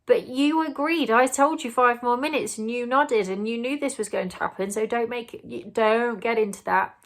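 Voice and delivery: a pointless parent argument; mock exasperated parent bargaining with child; arguing with a child. Shown as a demonstration. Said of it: "There is no point saying".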